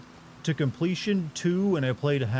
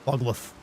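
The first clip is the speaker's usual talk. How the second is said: animal noise. Pretend. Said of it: "I'm an animal".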